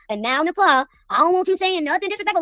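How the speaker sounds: mock him lecturing her before unmuting; a hint of a condescending host; mocking pep talk. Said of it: "you did a fucking pep talk".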